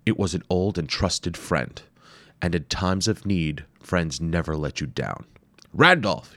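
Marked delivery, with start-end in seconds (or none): 5.7-6.3 loud, high call across the jungle. Acted. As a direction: shout his companion's name, searching. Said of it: "he called out again".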